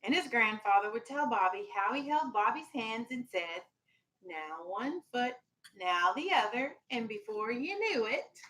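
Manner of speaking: gentle storybook read-aloud for a class; lightly voiced picture-book reading; reading to children. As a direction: read it like story time on the rug.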